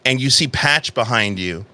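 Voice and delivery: measured storytelling with long pauses; game master narration. A narrator's reading. Game master describing a tense reunion, measured narration. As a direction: unfold the scene slowly, phrase by phrase.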